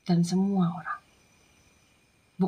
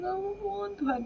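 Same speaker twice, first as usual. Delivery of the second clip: high, soft plea for mercy; small pleading wail, much softer; retold tearful plea; 11 semitones higher, 7 dB quieter than usual. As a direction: let the imitated cry drop away, still high. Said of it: "saya bilang".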